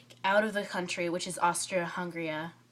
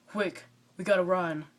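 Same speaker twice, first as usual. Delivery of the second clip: lightly lowered boyish voice, hammed-up; mock dude voice. Shown as a demonstration. Drama student demoing her boy disguise, lightly mock dude voice. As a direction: play a girl faking a boy's voice. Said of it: "I have to talk like this".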